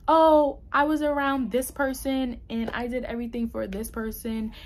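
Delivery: hammed-up blaming whine; mock excuse-maker. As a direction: pile up the self-pity, then rush the end. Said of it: "Like, I can easily be like".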